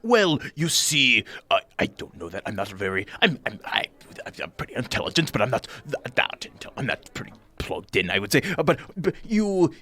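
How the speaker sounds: lightly voiced nervous host, fussing and apologetic; a flustered host invites the strangers in; fussy little host. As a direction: ramble politely, tripping over words. Bock answers party.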